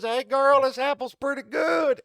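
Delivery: high, loud, slow sly snake; the snake sweet-talking Eve; mock snake offering the apple; tempting snake.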